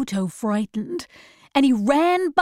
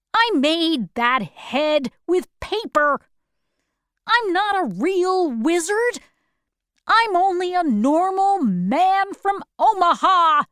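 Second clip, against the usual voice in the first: higher, lightly voiced little old man admitting the truth; confessing wizard; 7 semitones higher, 3 dB louder than usual. Oz confessing to Dorothy he is no real wizard, light higher voice.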